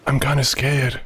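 muffled, as if underwater; talking underwater. Pretend. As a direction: speak like your head is submerged. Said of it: "Why are you talking underwater?".

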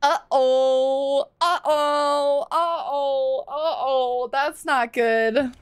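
stretched, whimpering uh-ohs; drawn-out worry. Real, not acted. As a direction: moan it slowly as trouble sinks in. Trouble in the game.

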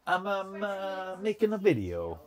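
high, hammed-up Italian accent, imitating Carlos; mock Italian accent. Teasing barber Carlos with a mock Italian accent. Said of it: "you taking a piss out of an Italian".

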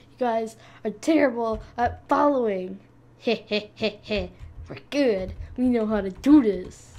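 mock villain cackle heh heh; teasing cartoon laugh. Mocking teammates, cartoon laugh.

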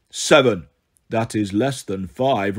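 slow, low, dim-witted giant; slow dim monster. Acted. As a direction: puzzle it out slowly. Cyclops slow thinking.

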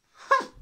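loud scornful humph; snort. A narrator's reading. Headmistress, taken aback, gives a loud scornful snort. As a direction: snort in contempt. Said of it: "she snorted".

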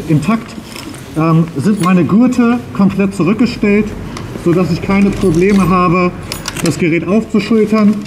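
muffled behind a breathing mask; talking through a face mask. Real, not acted. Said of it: "wie gut man ihn jetzt unter der Maske versteht".

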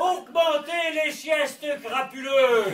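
loud, laughing orator's cry; hammed-up state speech to the nation; mock solemn proclamation. President addressing the nation, hammed-up and loud.

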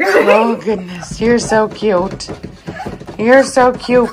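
gushing. Real, not acted. Owner gushing over her cute puppy, slow and adoring.

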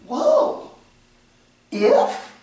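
high startled whoa, then a whispered if; imitating a startled listener; mock alarm. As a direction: recoil at the word if. Other person reacts to "if.

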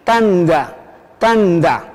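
"tanda" said alone with a clear D after N; T sounded as D. Shown as a demonstration. Teacher showing learners "like this", T as D. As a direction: model "tanda" for repeating, D not T. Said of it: "así".

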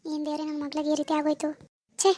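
hushed, dismayed lament; sorrowful aside. Acted. Mother grieves to God over her daughter, sorrowful and soft. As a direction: lament softly to yourself.

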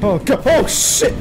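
high frantic panic; being chased. Real, not acted. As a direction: gasp and plead while fleeing. Still chased.

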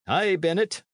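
high character voice, regaining composure; priest somewhat recovering. A narrator's reading. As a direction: pull yourself together after a shock. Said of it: "said the priest, somewhat recovering".

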